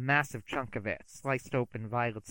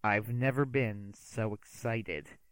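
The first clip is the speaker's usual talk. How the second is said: grim sarcasm; slower than usual. Acted. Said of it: "I said grimly".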